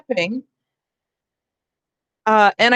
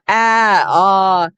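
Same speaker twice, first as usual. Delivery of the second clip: open vowel demo; 3 semitones lower, 4 dB louder than usual. Shown as a demonstration. Teacher showing students how breath flows, open vowel ah. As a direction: open ah sounds, a little louder. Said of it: "we have opened up and we're allowing breath".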